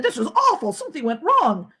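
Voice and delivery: laughing through the words; laughing dismay. Acted. Father to his sons about the ruined omelet, laughing. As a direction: laugh it off as you admit defeat.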